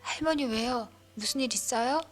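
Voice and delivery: high, loud worried call; urgent shout into the phone; alarmed calling out. Acted.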